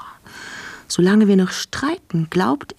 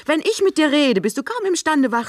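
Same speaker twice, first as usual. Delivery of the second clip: accusing, higher pitch; 6 semitones higher than usual. Acted. Accusing quarrel.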